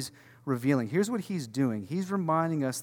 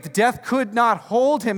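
loud, slow, higher proclamation; preached climax; 8 semitones higher, 8 dB louder, slower than usual. Shown as a demonstration. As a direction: land it slow and loud over the crowd. Repeats line at preaching climax.

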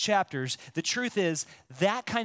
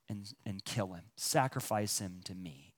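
much lower and softer, grave; hushed command; 11 semitones lower, 9 dB quieter than usual. Retold or imitated. Preacher voicing God's command to kill Isaac, hushed and grave. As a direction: drop to a grave hush. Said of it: "this God says".

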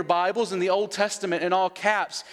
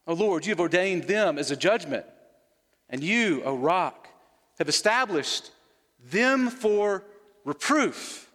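scripture reading. Acted. Reading Habakkuk's prayer aloud.

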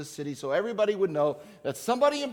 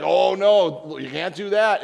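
Peter protesting; 8 dB louder, slower than usual. Retold or imitated. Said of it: "Peter's like".

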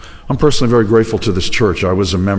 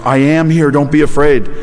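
raised-pitch retold call; calling out reassurance; 4 semitones higher, 3 dB louder than usual. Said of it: "But he called out to them".

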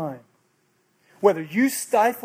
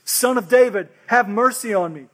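louder, insistent plea for mercy; crying out; 3 semitones higher, 4 dB louder than usual. Acted. Blind beggar refusing to be silenced, crying out all the more. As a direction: call out harder over the crowd. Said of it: "he cried out all the more".

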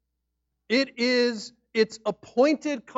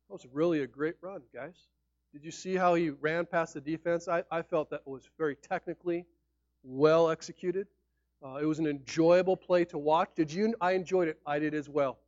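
stiff polite analysis; 4 semitones lower, 5 dB quieter than usual. Pretend. Mock reserved fans after a run.

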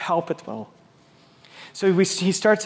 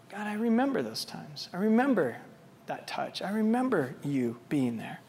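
hushed prayer; 9 dB quieter than usual. Acted. Intimate remembered prayer.

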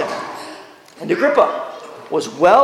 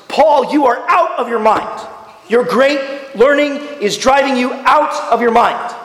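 Festus calling out, a touch louder; 3 semitones higher than usual. Acted. Preacher reading Festus's outburst to the congregation, loud voice. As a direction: read it out loudly as the Bible says. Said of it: "I read it with a loud voice".

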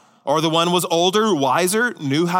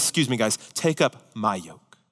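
Jesus cutting in; 4 semitones lower than usual. Retold or imitated. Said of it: "Jesus steps in and says".

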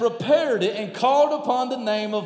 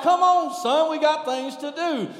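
impatient dad; 6 semitones higher than usual. Retold or imitated. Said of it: "I'm like".

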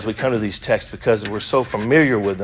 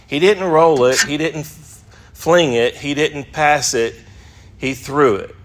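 roll, fling, pass then threw, raised; lightly higher contrast list; contrastive stress; 3 semitones higher than usual. Shown as a demonstration. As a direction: build to He threw it. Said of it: "the emphasis is on he threw it".

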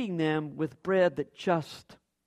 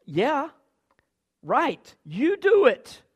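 wry retort; 7 semitones higher, 6 dB louder, much slower than usual. Retold or imitated. The Lord answers, voiced.

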